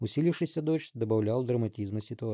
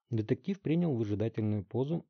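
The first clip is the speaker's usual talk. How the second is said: usual speaking voice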